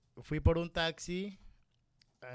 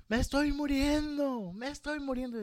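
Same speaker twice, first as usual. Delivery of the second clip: high mock wail of a dying mother; dramatic mother's lament; 11 semitones higher than usual. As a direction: imitate mom crying out she's dying. Mother wailing at night.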